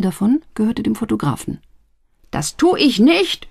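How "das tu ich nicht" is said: high, slow shout. A narrator's reading. Photographer shouting at his sister. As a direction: yell the refusal at her. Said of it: "schrie er".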